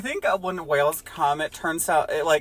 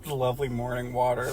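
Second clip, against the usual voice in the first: ominous quote; 3 semitones lower, 5 dB quieter than usual. Retold or imitated. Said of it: "That sounds like a threat".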